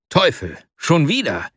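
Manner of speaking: a startled cry of dismay; mild waking exclamation; exclaimed in dismay. Acted. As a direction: blurt it out, dismayed at waking late. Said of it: "rief er aus".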